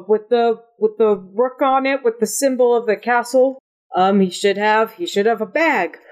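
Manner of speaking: flustered, halting list of missing items; understated panicky character voice; mild panic. Acted. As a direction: fret through the search, pitch climbing at the end. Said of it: "all but having a panic attack".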